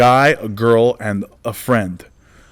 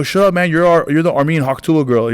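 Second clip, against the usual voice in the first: higher-pitched, mildly exasperated put-down; retold comeback; 5 semitones higher than usual. Comedian to noisy heckler, mock exasperation. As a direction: cut the heckler off, retelling it.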